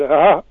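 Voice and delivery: short, loud laugh chopped off abruptly; cut-off laugh. Shown as a demonstration. Showing how the show's laugh got cut off, one abrupt imitated laugh. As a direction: imitate a burst of audience laughter that stops dead. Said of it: "there would be a cutoff of a laugh".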